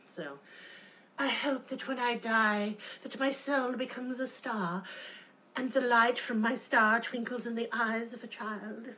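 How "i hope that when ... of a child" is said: mock pretentious monologue. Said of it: "But people don't go on long monologues".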